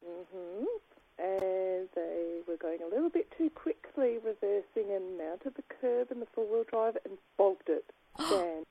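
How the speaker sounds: hushed, secretive phone whisper. Real, not acted. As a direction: keep it down so nobody hears. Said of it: "why are we whispering".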